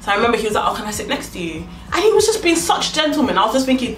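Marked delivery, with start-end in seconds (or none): 0.7-1.6 imitating a gentle, velvety-voiced man; soft-spoken, courteous request. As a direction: ask softly, smooth as velvet. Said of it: "he had a really soft, like, velvety voice".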